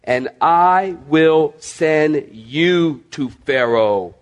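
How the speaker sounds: "I will send you" slow and weighted; emphatic underlining. Retold or imitated. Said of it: "underline this".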